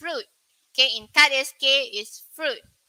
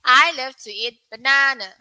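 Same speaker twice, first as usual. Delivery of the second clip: American pronunciation; 6 dB louder than usual. Shown as a demonstration. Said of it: "U K and U S".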